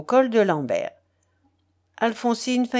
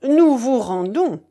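loud, slow, crudely mangled French; clumsy foreigner's French, heavily stretched out; 4 semitones higher, 7 dB louder than usual. A narrator's reading. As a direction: labour each French word heavily. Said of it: "en estropiant grossièrement les mots français".

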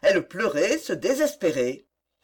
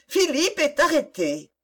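much higher pitch, restrained volume; distressed exclamation; 8 semitones higher than usual. A narrator's reading. Young woman fearing for her fiancé, exclaiming in distress. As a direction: cry it out high without shouting. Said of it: "s'écria-t-elle".

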